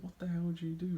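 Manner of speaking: retold alarmed outburst. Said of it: "And I said".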